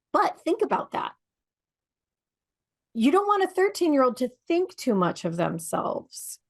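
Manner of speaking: a hushed, pointed whisper; whispered aside. Real, not acted. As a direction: whisper it like a secret to the listener. Pointed aside about a teenager.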